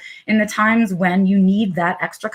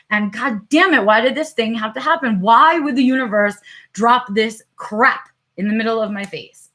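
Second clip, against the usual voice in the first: frustrated inner rant; 3 semitones higher than usual. Retold or imitated. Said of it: "what I've said to myself in my head".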